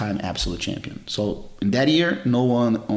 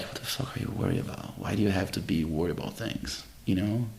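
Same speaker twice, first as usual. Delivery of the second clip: hushed self-rebuke; 7 dB quieter than usual. Retold or imitated. Inner self-talk after meeting the man.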